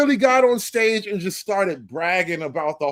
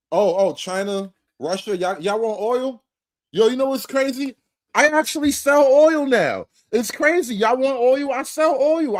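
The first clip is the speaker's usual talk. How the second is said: Trump impression; 4 semitones higher, 3 dB louder than usual. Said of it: "the way Donald Trump was talking".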